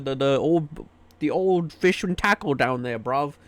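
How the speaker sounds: mock British police officer, poorly done British accent; bad British accent. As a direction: play a London cop barking "oi" at a door, badly faked British accent. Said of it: "my British accent is so fucking bad".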